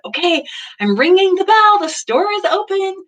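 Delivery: hint of an eager seven-year-old; excited little girl. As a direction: chirp it out like a proud kid. Seven-year-old announces her store.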